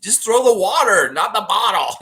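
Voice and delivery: loud, high laughing plea; laughing scold. Real, not acted. Streamer telling O G to throw water not bottles, laughing.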